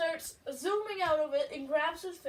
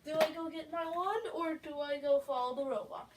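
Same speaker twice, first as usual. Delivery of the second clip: put-on kid voice; 3 semitones higher, 5 dB louder than usual. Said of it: "little Timmy was like".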